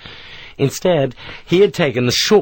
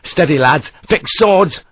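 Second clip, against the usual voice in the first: louder order, rising on the last words; steady them, then bark the order; firm command; 5 semitones higher, 4 dB louder, slower than usual. Acted. Sharp steadies his riflemen before the charge, commanding.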